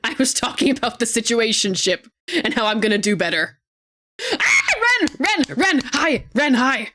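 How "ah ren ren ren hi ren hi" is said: high, thrilled calls of the friend's name; excited greeting. Real, not acted. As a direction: squeal the name in delight. Another friend arrives.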